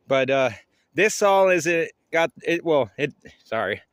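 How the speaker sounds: out of breath, broken phrases; panting after climbing the hill; gasping for air. Real, not acted. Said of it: "Yeah, I'm out of breath".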